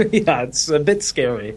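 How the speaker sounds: talking with a mouthful; eating cereal. Real, not acted. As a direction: speak through a bite of cereal. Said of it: "There's a delay 'cause I'm eating cereal right now".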